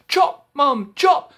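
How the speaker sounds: high, loud chop command; high urgent yell. Acted. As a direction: shout to Mum to chop. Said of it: "said Jack".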